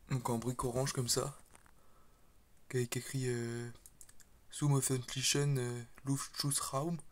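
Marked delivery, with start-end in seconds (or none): 4.5-7.0 slow, careful German pronunciation of "Zum öffentlichen Luftschutzraum"; German words read out. Shown as a demonstration. Reading a German sign on a Lego building, slow self-conscious German accent. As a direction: sound out the German sign slowly, with a French speaker's German accent. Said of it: "Excusez mon accent allemand".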